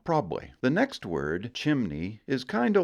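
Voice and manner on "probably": Probably clipped to PROB-lee, falling; two syllables. Shown as a demonstration. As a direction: drop the middle of Probably. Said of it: "reduced down to two syllables".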